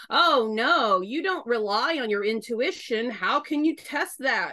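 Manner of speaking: exaggerated sing-song finger-wagging; mock scolding. Southern woman quoting her disapproving church, mock scolding. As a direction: mildly mimic a disapproving church voice.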